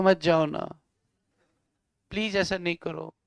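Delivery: low, softening plea; mock love-letter pleading. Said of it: "love letter से कोई चलेगा नहीं काम". (प्रेमपत्र जैसी नकली मिन्नत)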